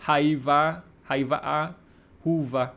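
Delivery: Haiva said like an English reader would; mock UK learner misreading Hyvä as Haiva; English mispronunciation. Shown as a demonstration. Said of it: "we'll probably say".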